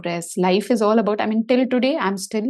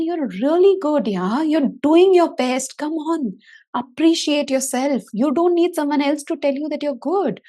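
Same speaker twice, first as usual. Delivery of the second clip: self-cheering; 5 semitones higher than usual. Retold or imitated. Cheering herself on.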